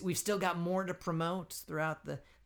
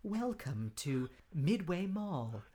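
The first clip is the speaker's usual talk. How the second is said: mock mall kiosk; 3 semitones higher than usual. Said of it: "I always wanted to be a kiosk".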